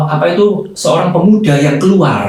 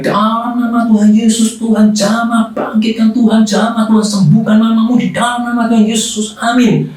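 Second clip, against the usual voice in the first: higher, intense prayer cadence; fervent prayer; 7 semitones higher than usual. Retold or imitated. Preacher praying for the young man's mother, fervent. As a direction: pray over him with fervour.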